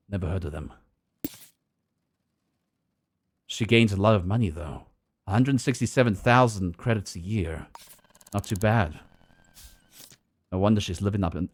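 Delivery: low, world-weary noir narration; noir detective. Acted. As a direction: brood like a hardboiled detective. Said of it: "you like my noir deep voice".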